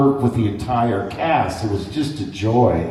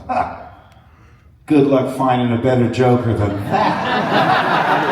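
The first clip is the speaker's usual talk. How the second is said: cocky boast. Retold or imitated. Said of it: "I thought".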